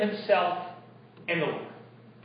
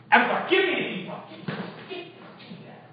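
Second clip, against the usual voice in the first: desperate pleading; 5 semitones higher, 6 dB quieter, faster than usual. Acted. David pleads for the ephod.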